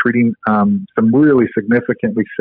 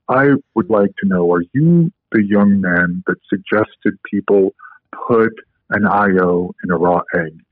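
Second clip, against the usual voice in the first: deep voice; 3 semitones lower than usual. Retold or imitated. Orlowski quizzing the young man about the raw egg, in a deep voice. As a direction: keep his voice low and measured as he asks. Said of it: "in a very deep voice".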